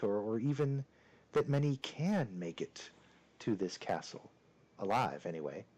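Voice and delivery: lightly voiced courtly castle host, measured pauses; a touch of the suave lord welcoming guests; deep, suave voice. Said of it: "in a very deep and suave voice".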